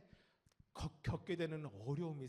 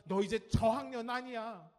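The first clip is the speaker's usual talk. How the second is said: lightly acted parental nag, raised and loud; nagging parent; 5 semitones higher, 7 dB louder than usual. Parent to a fourth-grader, mock nagging. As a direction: play a scolding parent a little. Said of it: "이런 소리를 듣습니다".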